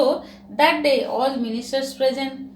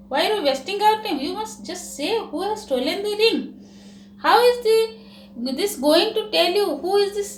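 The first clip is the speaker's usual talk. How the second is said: higher, fast scolding; irritated minister; 4 semitones higher than usual. Acted. Minister scolding Birbal in court, irritated. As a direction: snap at him for wasting time.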